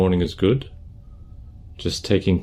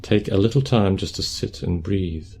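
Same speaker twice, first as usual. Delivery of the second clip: calm, unhurried meditation guidance; guided meditation; 5 dB quieter than usual. Acted. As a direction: guide them gently through posture and breath, leaving space.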